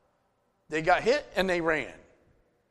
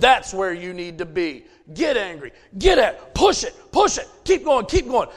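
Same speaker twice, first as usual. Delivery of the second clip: urging him on; 4 dB louder than usual. Retold or imitated. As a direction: coach shouting encouragement, building. Dad urging son on, building.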